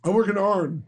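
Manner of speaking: Pittsburgh "Arn" for iron, one syllable; working Pittsburgh accent. Retold or imitated. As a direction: imitate a Pittsburgh local saying iron as "Arn". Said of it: "they used to say Arn".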